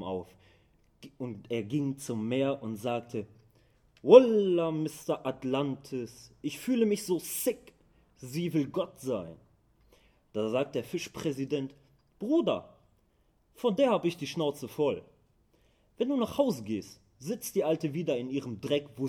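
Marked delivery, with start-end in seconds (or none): 4.0-9.4 loud, high, worked-up plea to the fish king; agitated complaint. Acted. 12.2-19.1 high, loud, exasperated brother talk; fed-up outburst. Acted. Fish president fed up.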